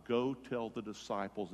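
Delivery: soft, restrained reading; understated quote. Retold or imitated. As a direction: quote it quietly, without projecting. First quiet quote of risen Jesus.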